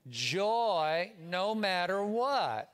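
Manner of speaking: said slowly with a smile; smiling. Shown as a demonstration. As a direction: beam through each word. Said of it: "you have to smile when you say it".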